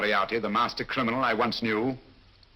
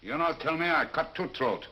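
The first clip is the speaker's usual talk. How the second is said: rough foreign sailor, higher pitched; disguised sailor voice; 6 semitones higher than usual. Acted. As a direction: growl it like a dockside thug. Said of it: "An admirable disguise".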